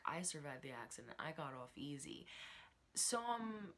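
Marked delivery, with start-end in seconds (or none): 0.0-2.2 quieter, knowing, eyebrows-up delivery; hint at more than she says; raised eyebrows. Retold or imitated. Lucy hinting at her accident, quiet and knowing. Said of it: "raises her eyebrows when she's like".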